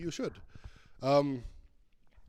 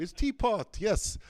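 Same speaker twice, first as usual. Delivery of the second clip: excited; 9 semitones higher, 9 dB louder, slower than usual. Real, not acted. Delighted at teapot result.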